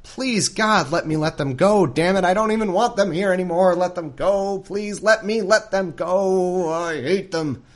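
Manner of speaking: high, hammed-up desperate begging; Pharaoh pleading. Pharaoh begs God to let him let them go, mock-desperate. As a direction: beg in a mock wail, stretching the last plea. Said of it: "must be pleading with himself".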